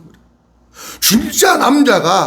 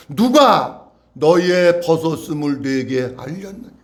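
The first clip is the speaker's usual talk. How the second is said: slow, lower scripture question; lightly voiced God; 6 semitones lower, slower than usual. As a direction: quote God slowly, a little lowered. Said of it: "하나님이 이렇게 말씀하십니다". (살짝 낮추어 천천히 묻는 하나님 말씀)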